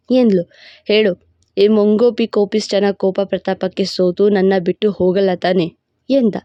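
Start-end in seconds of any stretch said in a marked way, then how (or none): 0.8-5.7 lower, commanding male lead; a proud, possessive lover laying claim; possessive hero voice. Acted. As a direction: hero boasting to his beloved in a lower voice. Hero asks her.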